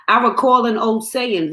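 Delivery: unvoiced whispered line. Poet whispers a line of her poem. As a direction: breathe it out as a whisper.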